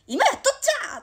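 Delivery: high, loud whiny retort in Toyama dialect; mock sibling quarrel. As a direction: snap back like a kid who's being nagged. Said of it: "喧嘩もするね". (富山弁で高く大声の口喧嘩の返し)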